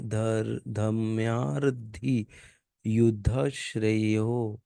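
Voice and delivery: slow, broken-up practice recitation; careful re-reading. Shown as a demonstration. Teacher practising the hard line again, slow recitation. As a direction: break the words apart slowly. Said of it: "इसको थोड़ा break अच्छे से करना पड़ेगा".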